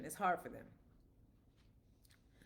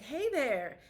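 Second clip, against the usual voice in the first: mildly excited, higher-pitched hello; excited greeting; 4 semitones higher, 3 dB louder than usual. Retold or imitated. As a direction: imitate a happy, eager greeting. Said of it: "excited and happy to see her".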